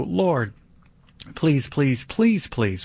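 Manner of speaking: mock begging with a high cry of "Lord"; hammed-up desperate prayer; obsessive pleading. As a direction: pile up the pleases, imploring. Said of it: "all that obsessive please, please, please".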